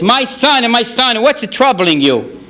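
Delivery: lightly voiced God, drawn out and solemn; God gently asking the rabbi what troubles him. Voice of God answers.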